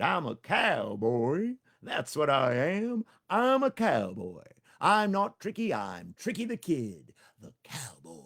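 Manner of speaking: put-on slow, high, loud bragging kid; slow proud boast of a small hero; proud cowboy boast. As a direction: swagger it out like a little cowboy. Tricky voiced, proud boast.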